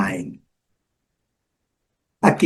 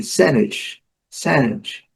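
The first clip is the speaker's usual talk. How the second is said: "sandwich" with a strong SAN; SAN-wich, second syllable reduced; stressed first syllable; much slower than usual. Shown as a demonstration. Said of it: "a sílaba forte que você tem que caprichar".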